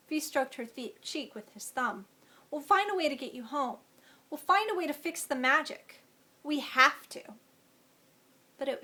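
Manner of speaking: expressive read-aloud of a tense fairy-tale scene; story narration. A narrator's reading. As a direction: read it like an audiobook, voicing the characters. Author reads chapter aloud.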